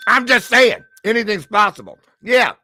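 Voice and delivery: loud, high, giddy hype; excited. Real, not acted. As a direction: squeal it with excitement. Gushing about a famous guest.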